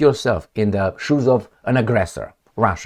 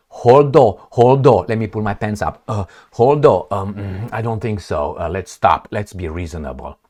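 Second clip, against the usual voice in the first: mock flustered West. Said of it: "civilized West will say".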